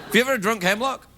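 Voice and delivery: halting, dramatic pauses; Shatner-style delivery. Acted. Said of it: "It's a little bit Shatner".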